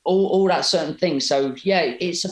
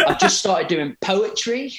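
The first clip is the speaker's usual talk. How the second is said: higher, laughing through the admission; laughing retold confession; 5 semitones higher than usual. Son telling dad he writes poetry, through laughter. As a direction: confess it while cracking up.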